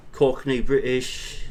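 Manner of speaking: Cockney accent with cut-off word endings; Cockney British. Shown as a demonstration. Streamer shows a viewer kinds of British, Cockney accent. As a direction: drop the ends of words, Cockney style. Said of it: "where everything's just kinda cut off".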